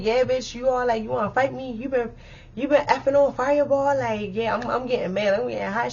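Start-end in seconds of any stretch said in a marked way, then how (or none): 0.0-4.0 retold confrontation. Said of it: "So I'm like".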